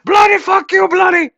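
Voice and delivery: put-on very high, loud shrieking with South Asian accent, laughing. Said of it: "the history of India and Pakistan rolled into a two-minute video".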